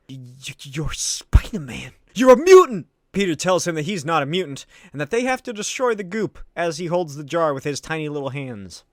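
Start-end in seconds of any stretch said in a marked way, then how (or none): 0.1-2.9 stuttered then much louder cry; startled stammering shout; shocked stammer. Retold or imitated. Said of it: "Eddie's like".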